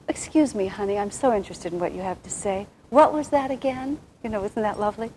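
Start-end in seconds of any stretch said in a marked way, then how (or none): 0.1-4.0 a syrupy, courteous ask with a lifted "What was that again?"; sweetly polite. Retold or imitated. Woman imagining husband asking her to repeat, sweet mock politeness. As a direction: play the ideal attentive spouse, overly sweet. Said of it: "instead of saying".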